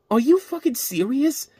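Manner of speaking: high, slow, incredulous; can't believe this movie ends like that; exasperated disbelief. Real, not acted. Disbelief at the blooper ending.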